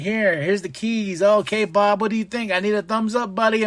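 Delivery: lightly voiced desperate wrestler; mock pleading MJF. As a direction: plead with him, eager. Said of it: "He's like".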